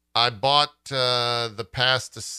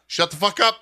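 raised, urgent mock outburst; urgent hushing; 8 semitones higher, 5 dB louder than usual. Host recounting texts to a co-host, urgent hushing. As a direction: frantically shush a friend mid-spoiler. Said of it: "We both were just like".

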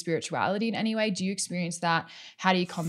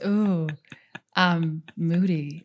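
sexy voice; slower than usual. Retold or imitated. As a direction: drawl it out, seductive and slow. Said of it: "It's like a sexy voice".

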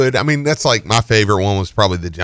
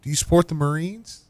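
higher falsetto for the caller; polite phone caller; caller's voice; 9 semitones higher, 8 dB quieter than usual. Retold or imitated. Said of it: "She's like".

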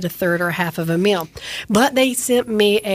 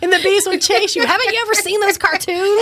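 high, laughing and louder; 10 semitones higher, 3 dB louder than usual. Real, not acted. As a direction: talk through laughter. Laughing about bees.

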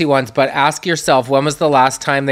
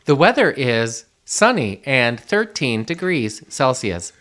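robotic assistant voice; 2 semitones lower, 4 dB quieter, slower than usual. Acted. S1 voices Siri reply.

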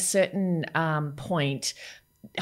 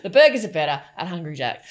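bad acting; 5 dB louder than usual. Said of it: "Forcing it".

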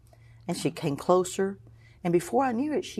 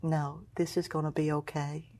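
soft reassurance; 2 semitones lower, 8 dB quieter than usual. Retold or imitated. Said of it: "She said".

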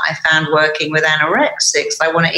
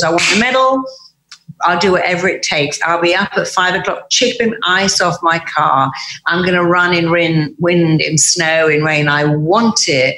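firm and certain about the medal; determined athlete. Retold or imitated. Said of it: "And Olympic athlete goes".

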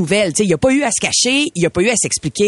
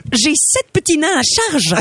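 pleading princess; 5 semitones higher than usual. Acted.

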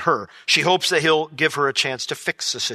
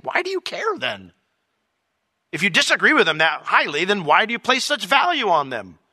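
gentle questioning Lord; 2 semitones higher than usual. Retold or imitated. The Lord asking why he still cares. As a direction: press the point kindly.

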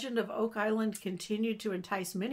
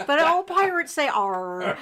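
mock gasp; 7 semitones higher, 9 dB louder, slower than usual. Real, not acted. Playful pirate banter.

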